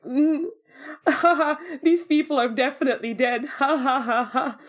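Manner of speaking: laughing it off as a joke; jokey line wrapped in mock laughs; joking. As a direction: recreate amused disbelief with ha-ha laughter. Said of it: "We went from joking to this".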